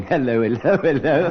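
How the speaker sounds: hammed-up policeman; policeman's hello. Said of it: "emerged saying".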